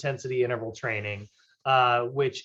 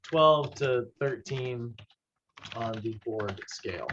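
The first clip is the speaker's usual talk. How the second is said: slow, spelled-out restatement; 2 semitones lower, slower than usual. Shown as a demonstration. Trainer restating the target for students, slowly and deliberately. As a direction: lay it out slowly for the class. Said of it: "Like, go back to this".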